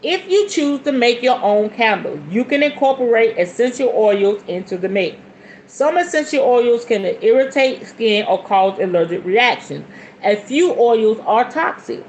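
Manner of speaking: measured book-reading delivery; reading aloud. Real, not acted. Reading a book on oils to viewers, reading aloud. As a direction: read it out as instruction.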